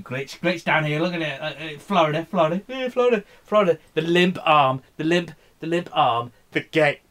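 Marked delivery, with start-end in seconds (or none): 1.4-7.0 high, loud mocking tone. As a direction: jeer at the map. Mocking Florida on the map.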